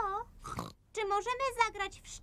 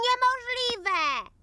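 exasperated; 3 semitones higher, much slower than usual. Acted. Child fails to play the horn.

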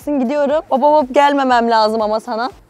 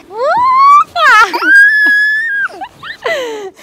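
very high squealing laugh; shrieking laugh; 7 dB louder than usual. Real, not acted. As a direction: let out a delighted shriek of laughter. Toddler playground play. (çocukla oynarken çığlık gibi kahkaha)

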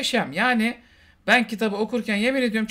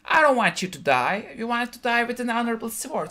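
Zendaya; 4 semitones higher than usual. Retold or imitated. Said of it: "Zendaya yandan geliyor".

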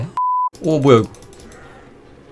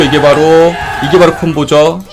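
excited; 5 dB louder than usual. Real, not acted. Hyped combo call.

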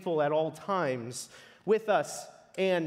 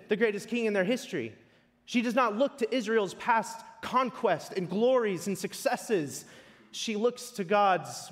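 higher-pitched, driving sermon delivery; emphatic preaching; 5 semitones higher, 4 dB louder than usual. Acted. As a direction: press each contrast home to the congregation. Preacher builds emphatic contrast.

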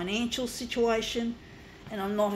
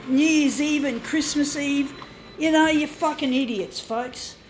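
raised, insistent, accusing voice; angry rant; 4 semitones higher, 4 dB louder than usual. Real, not acted. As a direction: berate them loudly, higher than usual. Angry rant at news people.

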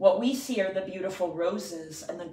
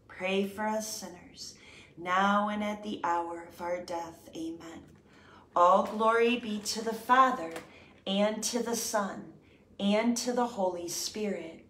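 steady devout recited prayer; prayer recitation. Acted. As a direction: pray it aloud in an even reverent rhythm. Recited Hail Mary and Glory Be.

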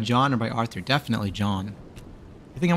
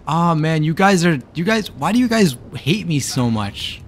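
real whine; 3 semitones higher than usual. Real, not acted. Streamer complaining to chat.

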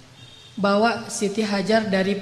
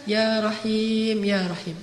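soft, slow, tender plea to God; gentle pleading; 2 semitones lower, 3 dB quieter, much slower than usual. Retold or imitated. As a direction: draw out Rahim slowly and softly, like an old woman begging. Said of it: "dengan bahasa yang lembut".

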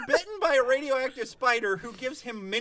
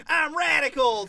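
slow, louder mock hero line; goofy teen Spider-Man; 3 semitones higher, 6 dB louder, slower than usual. Friends mocking the new Spider-Man, goofy slow voice. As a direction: ham up a dorky teen hero.

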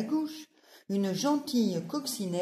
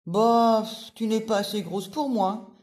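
loud scornful scoff; ladybug voice; 3 semitones higher, 5 dB louder than usual. Acted. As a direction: brush them off with contempt.

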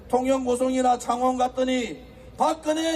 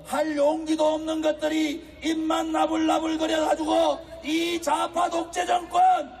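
fiery rally speech; 3 semitones higher than usual. Acted.

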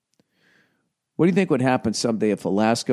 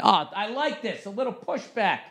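mock approving voice; 10 semitones higher, 5 dB quieter than usual. High quiet aside voice.

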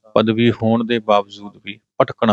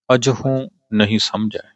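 phrase coming to rest on ਸਮਝੈ; pause on ਸਮਝੈ. Shown as a demonstration. Teacher showing the pause, phrase halting after ਸਮਝੈ. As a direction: read on and stop after ਸਮਝੈ. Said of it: "ਇੱਥੇ ਵਿਸ਼ਰਾਮ ਸਮਝੈ ਦੇ ਉੱਪਰ ਆਏਗਾ".

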